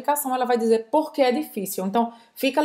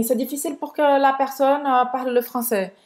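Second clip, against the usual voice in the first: imitating her French intonation; 2 semitones higher than usual. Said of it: "rapidez e uma entonação bem francesa".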